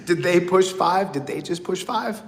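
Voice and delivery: amused replay of the worry; laughing disbelief. Real, not acted. Laughing at the memory of the prison call. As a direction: repeat it through a laugh.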